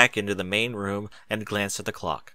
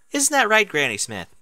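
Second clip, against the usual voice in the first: raised, higher call to wake her; 10 semitones higher, 3 dB louder than usual. Acted. Cheerilee calls to drowsy Granny Smith, raised call. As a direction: call across to the old mare.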